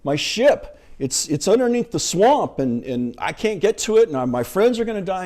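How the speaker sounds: imitating Luke panicking over his sunk ship; freaking out. Luke panicking to Yoda about his sunken ship, mock panic. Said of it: "and he's freaking out".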